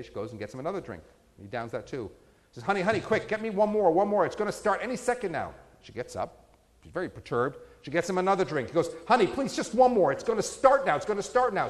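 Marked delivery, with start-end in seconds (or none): 2.6-5.5 pleading higher, rushed and insistent; urgent pleading. Acted. Husband more urgent in joke. 9.1-11.7 hammed-up begging for just one more; desperate pleading. Husband begging in joke.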